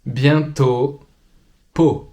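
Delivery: bientôt, peau said slowly with a clear closed final O; slow textbook pronunciation. Shown as a demonstration. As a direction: model bientôt and peau carefully, like a teacher. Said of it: "the last oral vowel".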